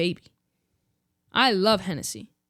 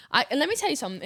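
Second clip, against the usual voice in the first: put-on British accent; 5 semitones higher, much faster than usual. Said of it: "now I'm gonna do it".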